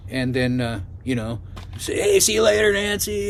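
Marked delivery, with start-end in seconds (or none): 2.0-3.3 higher, casual parting call; retold goodbye call. Driver leaves Nancy at the bar, retold goodbye call. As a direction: re-enact a breezy goodbye.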